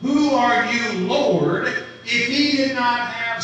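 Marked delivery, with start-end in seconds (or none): 0.0-1.7 a touch louder, calling upward to the Lord; mild cry out. Retold or imitated. Preacher acting Saul crying out to the Lord, a bit louder. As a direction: lift the voice as if crying out. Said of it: "cry out".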